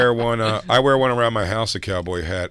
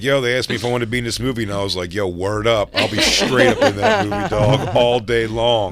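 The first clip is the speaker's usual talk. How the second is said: mock slangy interviewee. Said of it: "That'd be funny if this interview".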